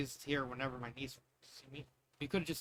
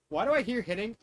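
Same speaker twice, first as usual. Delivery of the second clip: louder, higher wondering call; mock daughter hearing a fight; suspicious kid; 5 semitones higher, 6 dB louder than usual. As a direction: ask like a kid who heard noises. Daughter's voice in imagined scene.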